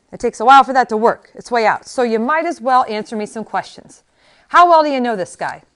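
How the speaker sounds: a hint of a loud crotchety old man; lightly voiced cranky Max. A narrator's reading. Max questioning Inigo, lightly cranky. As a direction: nag like a fussy old healer.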